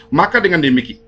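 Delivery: usual speaking voice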